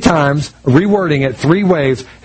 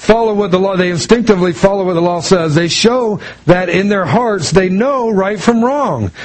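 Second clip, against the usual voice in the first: preaching; 3 semitones higher than usual. Acted. Pastor preaching Romans to the congregation, fervently. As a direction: drive the scripture point home to the congregation.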